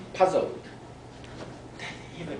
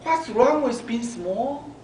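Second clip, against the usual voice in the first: put-on hurt child; 8 semitones higher than usual. A narrator's reading. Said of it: "Abby asked".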